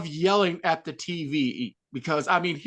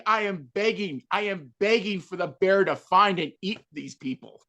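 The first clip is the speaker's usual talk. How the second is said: normal talking voice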